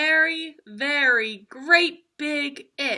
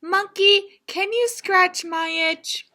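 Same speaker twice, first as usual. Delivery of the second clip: lightly voiced rhino; 8 semitones higher, 4 dB louder, slower than usual. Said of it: "the rhino said".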